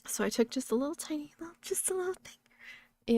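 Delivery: whispered, high, tiny just a little; whispered understatement of a tiny dose; sheepish whisper. Retold or imitated. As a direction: whisper it like a guilty secret.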